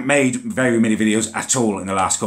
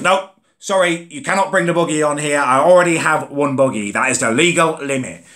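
higher, prim jobsworth driver refusing; a fussy official reading out rules; mock bus driver voice; 4 semitones higher, 3 dB louder than usual. Bus driver refusing the buggy, prim higher voice. He goes.

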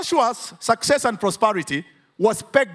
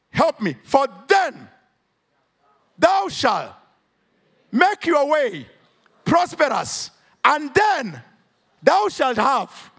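rising, emphatic preacher voice; preaching; 3 semitones higher than usual. Acted. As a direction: preach it out with full fervour. Preaching at full force.

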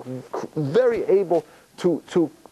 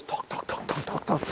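mock chatter; 10 dB quieter than usual. Man talking nonstop, mimicked.

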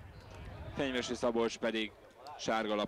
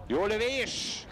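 excited call; 7 semitones higher, 3 dB louder, slower than usual. Real, not acted. Commentator reacts to a shot.

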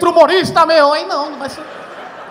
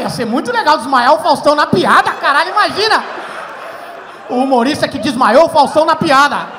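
excited; 6 dB louder than usual. Retold or imitated. Excited fantasy of fainting host.

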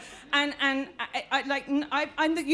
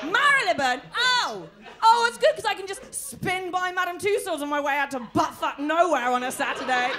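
sarcastic gushing; 4 semitones higher than usual. Retold or imitated. Continued Marylebone mockery.

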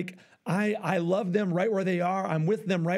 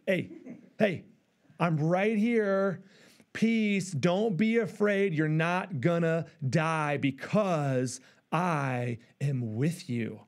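reassuring; slower than usual. Retold or imitated. God reassures the drowning one.

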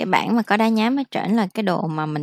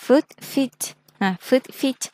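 foot feet lifted higher to mark the example; teacher highlights the new word pair; emphasized example; 6 semitones higher, slower than usual. Shown as a demonstration. Teacher points out the singular and plural to students, lifted pitch. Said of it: "thí dụ như chữ này đi".

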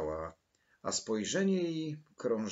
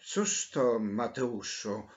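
usual speaking voice

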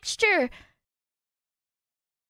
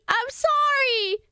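pleading; 4 semitones higher, slower than usual. Real, not acted.

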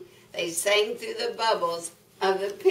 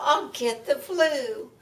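higher, lightly voiced cow complaint; mooing cow; 5 semitones higher than usual. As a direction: grumble as a chilly cow. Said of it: "mooed the cow".

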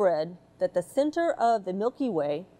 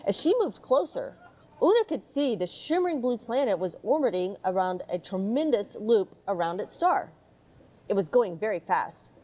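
put-on gentle read-aloud storytelling for children; mild storybook narration voice. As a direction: read it like a bedtime picture book. Reads picture book aloud.

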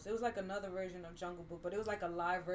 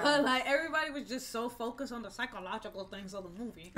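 put-on newscaster voice; white person voice; 4 dB louder than usual. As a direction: talk like a polished newscaster. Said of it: "That's your white person voice?".

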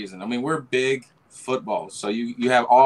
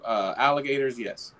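thick, drawn-out Southern accent; thick Southern drawl. Real, not acted. Guest answering the crocodile question, thick Southern accent. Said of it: "very thick, drawn accent".

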